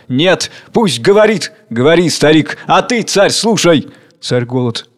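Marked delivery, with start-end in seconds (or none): 0.1-3.9 raised, insistent command; firm voices. Acted. Crowd defends the old man to the king, firm. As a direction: demand it firmly, stressing each call. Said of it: "Твёрдые голоса".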